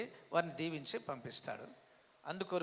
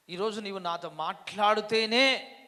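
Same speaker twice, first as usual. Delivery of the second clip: retold tearful plea; 5 semitones higher, 10 dB louder than usual. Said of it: "ఏడుస్తూ అడిగినట".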